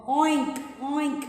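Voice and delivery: pig oinks. Shown as a demonstration. Teacher showing the children the pig's sound, oinking. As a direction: grunt out a pig's oink. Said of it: "The pig sound is oink".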